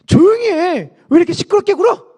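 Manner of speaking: loud, high telling-off; scolding. Acted. Crowd rebukes Bartimaeus for making noise, scolding. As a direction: shush him sharply and loudly. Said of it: "라고 하면서 바디메오를 구박하는데".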